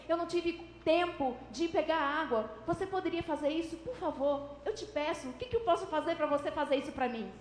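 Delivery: mildly imploring, piling up reasons and quickening; understated begging that gathers urgency; intense pleading. Shown as a demonstration. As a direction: build an earnest plea, step by step. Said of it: "um esforço mais intenso".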